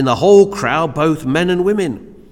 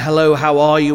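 bright, louder hello, not wanting an answer; breezy passing greeting; 6 dB louder than usual. Retold or imitated. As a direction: toss it off in passing.

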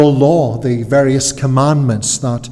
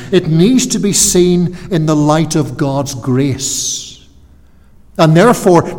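ordinary delivery

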